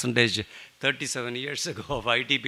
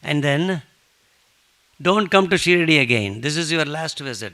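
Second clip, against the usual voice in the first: loud, slow, higher commanding voice; the saint ordering his devotee to stay home; emphatic command; 6 semitones higher, 9 dB louder than usual. Retold or imitated. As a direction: lay down the law loudly and slowly. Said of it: "he says emphatically".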